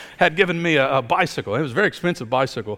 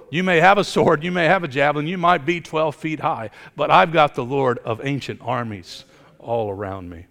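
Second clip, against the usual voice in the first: defiant challenge; 3 semitones higher, 4 dB louder than usual. Acted. Defiant taunt to Goliath.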